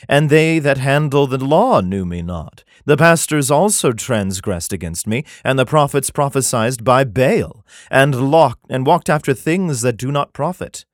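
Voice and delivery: measured, solemn Bible reading; scripture reading. Acted. Comedian reads Jeremiah to his audience, solemn scripture reading. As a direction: read it like King James scripture.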